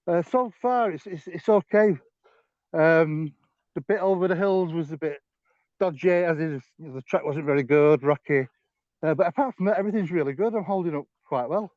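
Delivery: slightly breathless while walking; talking while walking uphill; out of breath. Real, not acted. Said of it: "why are you breathless?".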